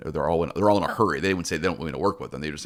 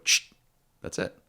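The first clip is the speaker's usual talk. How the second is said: calm shush. Retold or imitated. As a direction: settle the dog with a hushed voice. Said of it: "I didn't raise my voice".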